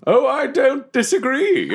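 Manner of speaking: high, drawn-out swoop; hammed-up coy character voice; theatrical suitor, agreeing. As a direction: relish every word grandly. Deathwolf agrees to unmask.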